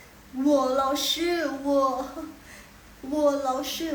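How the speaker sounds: slow, loud teacher's demonstration; drawn-out drill. Shown as a demonstration. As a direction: stretch each syllable out, loud and clear. Teacher drills syllables slowly aloud.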